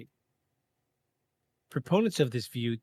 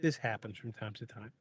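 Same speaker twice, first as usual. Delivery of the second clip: fast apologetic aside with hiccups; rushed sorry, hiccuping; 3 semitones lower, 6 dB quieter than usual. Real, not acted. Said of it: "sorry about the hiccups".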